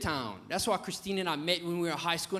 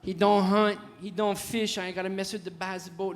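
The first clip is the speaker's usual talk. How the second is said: loud mock swoon, easing off; hammed-up thrill; retold overcome bride; 2 semitones higher, 4 dB louder than usual. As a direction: play her nearly fainting with delight. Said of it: "She like to pass out".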